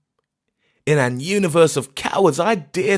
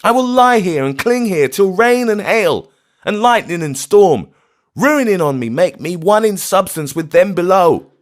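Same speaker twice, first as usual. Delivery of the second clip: high, loud frantic refusal; shrieking refusal; 10 dB louder than usual. Acted. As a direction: refuse to leave the graves, shrieking. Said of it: "he cried with a shriek".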